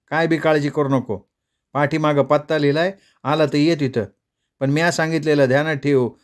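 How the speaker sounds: lightly voiced village sister, fond and teasing; a hint of a rustic sister's voice; sister's letter voice. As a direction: read it as the loving younger sister. Imagined voice of the sister.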